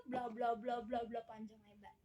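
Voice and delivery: low droning blah-blah, fading off; dismissive blah-blah. Acted. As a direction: wave away the rest of the lecture. Summing up the mock lecture.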